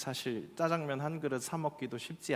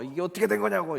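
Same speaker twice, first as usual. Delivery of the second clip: higher, louder imitation of a grumbling customer; mock complaint; 6 semitones higher, 8 dB louder, faster than usual. Customer phoning the boss, mock angry complaint. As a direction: play a customer griping about a missing side, half in jest. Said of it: "이렇게 불평하는 게 아니라".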